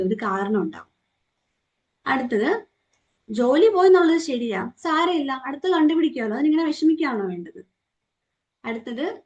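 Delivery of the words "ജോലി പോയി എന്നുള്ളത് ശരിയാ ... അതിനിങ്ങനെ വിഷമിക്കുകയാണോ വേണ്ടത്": breezy dismissive reassurance. Acted. Acted dismissive comforting statement.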